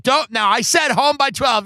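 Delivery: mock scolding mom. Mom scolding son on the way to car, mock stern. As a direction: lay down the curfew, lightly hammed up.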